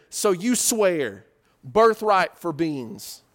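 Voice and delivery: slow, weighty words; slow deliberate. Retold or imitated. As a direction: lay out the terms slowly, word by word. Jacob sealing the deal.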